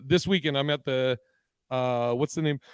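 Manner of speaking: talking with hiccups; hiccuping between words. Real, not acted. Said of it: "I got the hiccups now".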